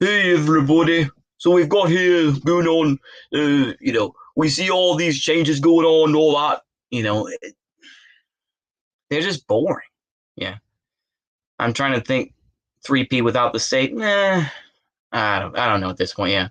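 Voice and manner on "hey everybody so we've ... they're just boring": put-on northern English accent, pitched up. The speaker tries to do a better accent, northern English accent. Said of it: "the northern accent from uh from like Leicestershire".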